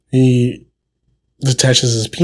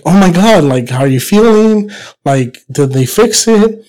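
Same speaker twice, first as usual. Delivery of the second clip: excited wife; 5 semitones higher than usual. Acted. Wife asks Pepito about his surgery, mildly excited. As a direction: greet him with raised pitch and eagerness.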